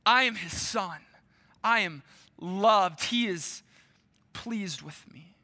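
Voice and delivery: gentle, slow, held close; tender inner reassurance. Acted. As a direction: repeat it to yourself like a lifeline. Jesus's inner words, replayed.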